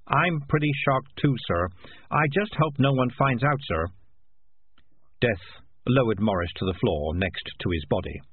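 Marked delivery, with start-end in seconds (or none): 0.1-3.9 lightly voiced cat, pitched higher; a hint of a humble talking cat; deferential cat. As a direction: answer a superior with a higher, sheepish voice. Morris answering Death.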